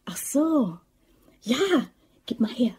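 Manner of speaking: hushed whisper so the caller won't hear; quick whispered aside to a colleague. Acted. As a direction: whisper it off to the side, urgent. Aside while colleague holds phone.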